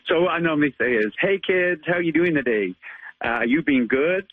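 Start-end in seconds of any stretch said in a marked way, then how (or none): 1.2-4.3 put-on upbeat American superhero accent, pitched higher; cheery American Spider-Man voice for kids. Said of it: "give us your American accent as Spider-Man".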